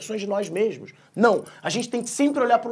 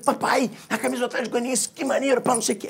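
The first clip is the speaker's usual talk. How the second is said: put-on higher-pitched, eager kid thrilled by a gift; excited child; 4 semitones higher than usual. Son thanking his dad for a team shirt, excited. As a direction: imitate a delighted little boy.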